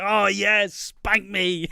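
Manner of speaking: high, loud mock moan of delight; hammed-up eager Miz. Imitating Miz getting excited for Layla, high and loud. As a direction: ham up a giddy, lusty groom. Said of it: "he's like".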